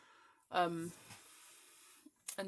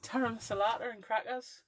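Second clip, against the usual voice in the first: lightly imitating a friend's accent, rising at the end; 3 semitones higher than usual. A ten-year running joke, in a mimicked accent. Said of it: "I do her accent back at her".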